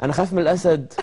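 teasing through laughter; laughing mock fear. Real, not acted. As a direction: joke about being scared while chuckling. Joking he fears the lion.

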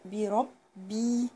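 بربي with a held, doubled باء; slow stressed shadda. Shown as a demonstration. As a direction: press the second باء in بربي. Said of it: "وشدد على الباء".

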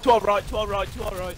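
calling out. Real, not acted. Calling teammates in game.

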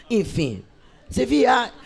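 usual speaking voice

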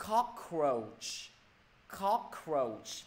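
COCKROACH with a clearly released final ch; hissed word endings. Shown as a demonstration. Teacher modelling cockroach for students, hissed ending. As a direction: say "cockroach" carefully, airy ch at the end. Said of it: "hoàn toàn là âm gió hết".

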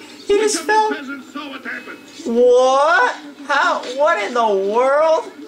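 drawn-out high what in the world; high shocked squeal. Real, not acted. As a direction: squeak out the disbelief. Stunned by a falling soldier.

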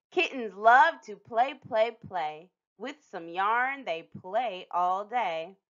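slow, sing-song rhyme; drawn-out reading to little ones; slow sing-song picture book verse; storybook reading. A narrator's reading. Reading sister's book page.

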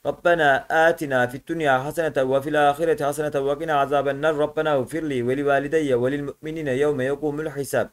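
even, devout Arabic recitation; sura recitation. Acted. Teacher reciting Kevser sura for the class, in a devout recitation.

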